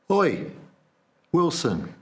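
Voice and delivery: loud, high hail across the street; cheery shout to lure him home; calling out. Retold or imitated. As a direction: call out to him with false friendliness. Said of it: "we said".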